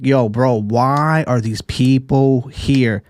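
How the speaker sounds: slow, put-on bored god voice; lightly voiced annoyed cat god; imitating annoyed Beerus. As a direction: drag it out like an irritated deity.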